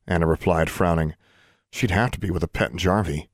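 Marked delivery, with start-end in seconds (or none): 1.7-3.3 grumbling. Acted. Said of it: "Alexandra grumbled".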